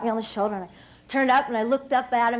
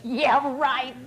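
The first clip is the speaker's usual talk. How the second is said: laughing. Real, not acted. Laughing off coach's promise.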